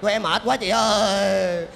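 high loud drawn-out wail; mock wailing call. Mourners calling their boss, hammed-up wail.

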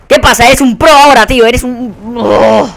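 loud, high sarcastic shout; angry yell. Real, not acted. Gamer yelling sarcastically at the enemy player, loud and high. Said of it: "No es normal lo que estoy gritando".

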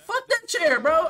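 angry outburst. Real, not acted. Angry gamer argues with teammates.

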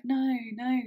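mock-playful "no, no", a little lifted. Man quoting what he took for joking, playful. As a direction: say "no, no" as if joking around. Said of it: "saying no playfully".

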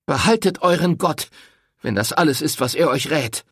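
a touch of scornful anger; bitter rejection. A narrator's reading. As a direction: throw his God back at him. Rosetta rejects his God.

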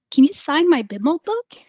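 high, loud eager asking; eager fan request. Retold or imitated. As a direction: beg like an excited fan.

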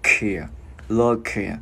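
"kìa" with the K popped from the throat. Shown as a demonstration. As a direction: release a strong K in "lơ kìa". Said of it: "Chữ K bật cổ ra". ("lơ kìa", bật cổ âm K)

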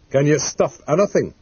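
mildly doubting question; sceptical. Acted. Mysterious caller testing the taxidermist, mildly sceptical. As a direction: ask it with a touch of disbelief. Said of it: "There was skepticism in the voice".

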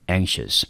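"anxious" repeated as a model, ANK-shus; stress on first syllable. Shown as a demonstration. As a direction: say "anxious" on its own, stressed at the front and falling. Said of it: "重音就落在N这个音节".

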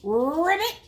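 high, loud rolled croak; little pig's ribbit. Acted. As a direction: trill it like a frog, swooping upward. Narrator voices pig's frog croak.

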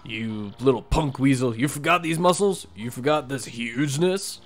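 lightly voiced cocky wrestler; a touch of a tough-guy champ; boastful brawler. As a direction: strut and brag like a ring champ. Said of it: "the famous Rockhawk".

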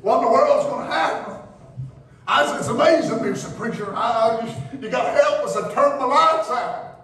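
preaching. Acted. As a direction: preach it with building fire. Preacher in full flow.

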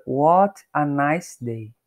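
What a nice day with the T of What flapped like a quick R. Shown as a demonstration. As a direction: say What a nice day, the T in What turning into a light tapped R. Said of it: "você vê que ela dá um som de R".

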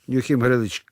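usual speaking voice

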